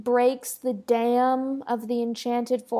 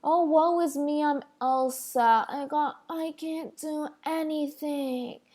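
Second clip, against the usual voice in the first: mock dramatic Elsa; slower than usual. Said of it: "she's so dramatic".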